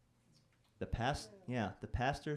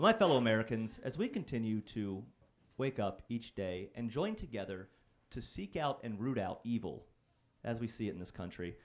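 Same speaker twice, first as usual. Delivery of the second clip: orate like a president rallying the nation; mock political speech. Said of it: "a fun way for a speech to start".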